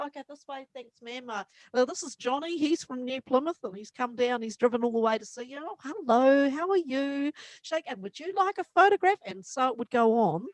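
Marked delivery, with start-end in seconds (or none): 0.1-9.2 lightly voiced usher. Manager ushering fans to B B.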